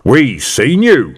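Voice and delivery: a sergeant hamming up the thick copper. Acted. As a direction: play the dim, immovable copper. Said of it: "role of big, thick ... copper".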